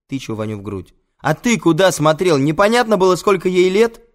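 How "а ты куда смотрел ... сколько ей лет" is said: high, loud confrontational shouting; outraged full-voice scolding; angry accusation. Acted. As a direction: shout the blame right at him. Accusing friend, poking his chest.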